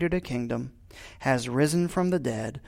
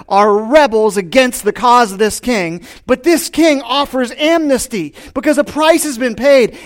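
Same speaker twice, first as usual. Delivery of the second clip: preaching; 6 semitones higher, 8 dB louder than usual. Acted. Fervent preaching after the proclamation.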